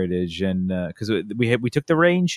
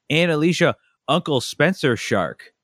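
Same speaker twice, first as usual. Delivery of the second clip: put-on high toddler voice; 7 semitones higher than usual. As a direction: raise the voice high and drag it out like a small kid. Toddler son quoted again.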